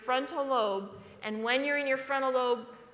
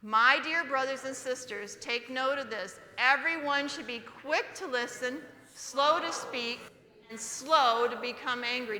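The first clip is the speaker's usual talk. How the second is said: read aloud together. Shown as a demonstration. Pastor leads the church reading the verse together, a touch louder. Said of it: "I want you to say it loudly".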